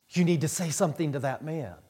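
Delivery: quick, understated urging; mildly urgent wife. Retold or imitated. Wife nudging husband to warn a man, mildly urgent. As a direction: imitate a wife's first quick prompt. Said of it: "she hit me on the shoulder, and she said".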